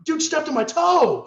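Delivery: high, loud, aggrieved whine; loud whiny complaint. Retold or imitated. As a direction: complain loudly like it's serious. Complaining to fighters.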